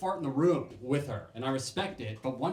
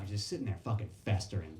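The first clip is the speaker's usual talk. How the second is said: ordinary talk, nothing marked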